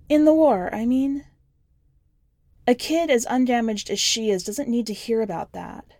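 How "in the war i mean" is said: put-on higher young girl's voice, plain and matter-of-fact; the kid's voice. A narrator's reading. The kid telling the stranger about her parents, in a higher child voice. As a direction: lift the pitch to play the nine-year-old.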